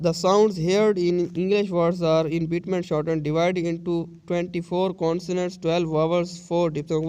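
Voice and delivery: very slow, word by word from the book; slow reading aloud. Shown as a demonstration. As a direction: dictate it slowly to the class. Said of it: "teacher reads the book aloud slowly".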